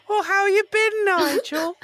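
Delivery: high, cheery chatty voice; cheery mock greeting. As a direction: greet it like an old friend.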